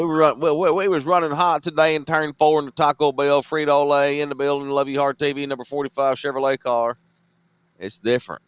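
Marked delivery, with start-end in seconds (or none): 0.0-7.0 nascar driver talk. Retold or imitated. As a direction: rattle off sponsors like a race driver after a run. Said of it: "It's nascar talk".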